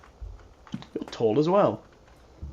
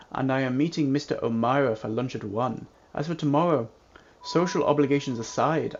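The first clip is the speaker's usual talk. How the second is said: formal reading. Acted. Reading the character's dialogue lines.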